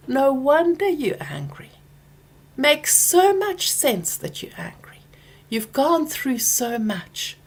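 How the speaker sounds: gentle whisper, slow at the end; soothing whisper. Pretend. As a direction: whisper comfort to your own anger. Kindly speaking to angry thoughts.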